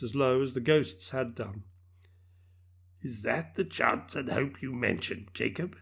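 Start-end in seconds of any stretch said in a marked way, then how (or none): 3.0-5.7 faltering voice. Acted. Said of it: "he demanded in a faltering voice".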